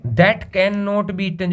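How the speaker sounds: slow, word-by-word read-out; slow dictation read. Shown as a demonstration. Teacher to students, reading the definition, slow dictation read. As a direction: read it out slowly so the class can write.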